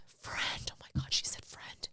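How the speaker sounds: choked, unvoiced whisper; close to tears. Real, not acted. Grieving host recalling a friend's condolence, tearfully whispered. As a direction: let the voice drop out to a whisper, about to cry. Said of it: "about to cry again".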